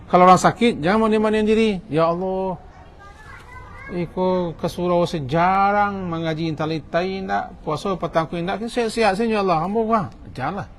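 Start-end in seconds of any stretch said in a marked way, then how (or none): 1.9-10.0 höher und gedehnt, leicht klagend nachgemacht; whining prayer. Retold or imitated. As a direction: ein Klagegebet spöttisch nachahmen. Mocks a whining person's prayer.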